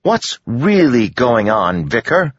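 high, loud public protest. A narrator's reading. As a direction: proclaim it to the whole room, pitched high. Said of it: "Melody said very loudly".

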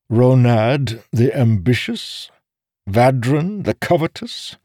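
high, emphatic challenge; pointed rhetorical questioning; skeptical warrior. Acted. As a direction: list the kings with open distrust.

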